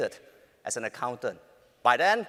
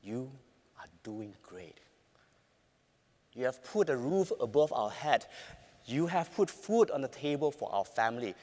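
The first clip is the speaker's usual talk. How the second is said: gentle but firm; 2 semitones lower, 4 dB quieter than usual. Retold or imitated. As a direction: reassure him gently. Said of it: "Gentle but firm".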